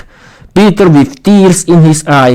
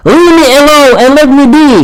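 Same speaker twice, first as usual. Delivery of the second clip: screamed; 10 semitones higher, faster than usual. A narrator's reading. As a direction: shriek it and run. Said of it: "Vera screamed".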